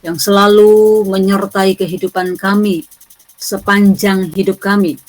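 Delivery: earnest prayer voice; praying aloud to open class. Real, not acted. (suara doa yang khusyuk)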